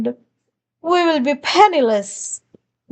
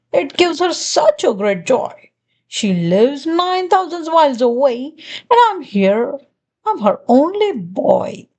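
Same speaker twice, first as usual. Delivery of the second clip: a hint of a sly, sugary glunk, quick in places; lightly voiced glunk. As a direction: play the glunk, sweetly pushy, not far from your own voice. Glunk speaking to the sister.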